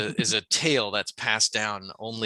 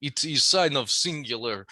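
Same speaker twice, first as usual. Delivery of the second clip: laughing mock Russian uncle, pitched up; Russian accent; 3 semitones higher than usual. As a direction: crack up while playing a Russian. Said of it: "like Russian uncle".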